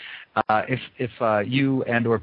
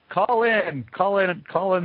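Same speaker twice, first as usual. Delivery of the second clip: urging listeners; 7 semitones higher, slower than usual. Real, not acted. Host urges chatters to phone.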